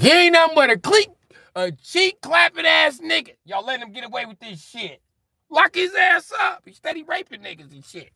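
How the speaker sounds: very high, loud ranting Joker voice. Retold or imitated. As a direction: rant like a shrieking villain. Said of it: "The Joker be like".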